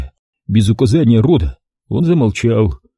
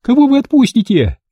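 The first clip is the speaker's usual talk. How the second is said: high, loud desperate plea; woman pleading with the gunmen; desperate shout; 14 semitones higher, 4 dB louder than usual. A narrator's reading. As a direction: cry out the question. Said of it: "отчаянно заорала Верка".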